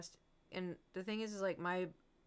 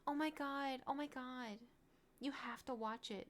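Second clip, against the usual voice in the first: higher, breathless gushing; mock an overexcited fan; lightly imitated fan gushing over a show; gushing fangirl; 5 semitones higher, 5 dB quieter than usual. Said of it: "TikToks of women be like".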